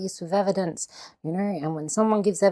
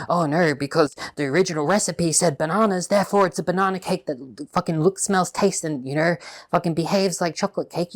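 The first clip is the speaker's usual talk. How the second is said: mock stubborn arguer. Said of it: "You wouldn't say".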